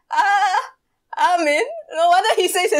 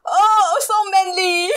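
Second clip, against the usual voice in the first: mock admiring; 3 semitones higher, slower than usual. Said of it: "Connie is like".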